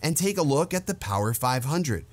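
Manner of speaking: lightly voiced stoner reviewer. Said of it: "make him sound like a stoner".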